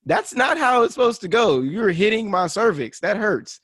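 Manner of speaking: imitating a woman. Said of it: "regular females to tell me".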